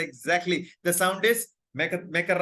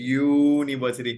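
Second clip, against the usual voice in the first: यूनिवर्सिटी said slowly, a little louder; slowed demo; 3 semitones lower, 4 dB louder than usual. Shown as a demonstration. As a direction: repeat यूनिवर्सिटी carefully. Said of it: "मैं वापस से आपको सुना रहा हूँ".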